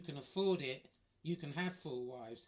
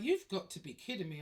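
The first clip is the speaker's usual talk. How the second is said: high, loud outraged disbelief; you've got to be kidding, shocked and loud; 4 semitones higher, 5 dB louder than usual. Retold or imitated. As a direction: recoil at the news, loud and high. Shocked at being told of wedding.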